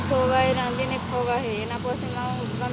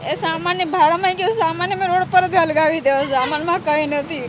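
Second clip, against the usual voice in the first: distressed outburst; 3 semitones higher, 7 dB louder than usual. Real, not acted. Distressed woman throwing away belongings.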